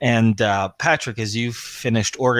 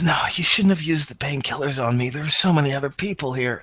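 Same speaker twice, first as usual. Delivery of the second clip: distressed plea; 4 semitones higher than usual. Acted. Wounded man protests, breaking down.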